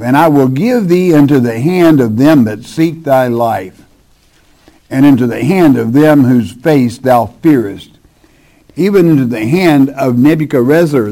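measured, solemn Bible reading; sermon scripture voice. Acted.

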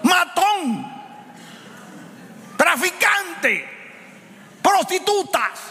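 high, shouted preaching, words dragged out; preaching at full force. Acted. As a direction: rebuke the flock at the top of the voice. (predicación gritada, muy aguda y arrastrada)

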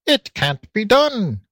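high, slow firm declaration; high little pig voice declaring; piglet declaring. A narrator's reading. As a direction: state it high and sure. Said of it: "declared Curly".

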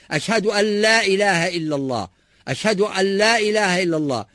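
أشهد أن لا إله with the ن merged into ل, said as allā; nun merged into lam. Shown as a demonstration. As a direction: blend أن لا into one sound. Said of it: "النون لازم تدغم في اللام".

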